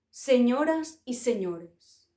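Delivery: slow, lightly voiced old ghost; a hint of a solemn elder opening a speech; old wise ghost. The oldest ghost addressing the gathered ghosts, slow and solemn. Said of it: "el fantasma más viejo y sabio".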